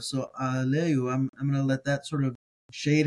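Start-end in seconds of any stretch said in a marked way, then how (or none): 0.4-1.1 slow aleu with an open a from the aleph; aleph pronounced. Shown as a demonstration. Teacher showing his preferred reading, slow aleu. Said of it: "I like pronouncing the aleph".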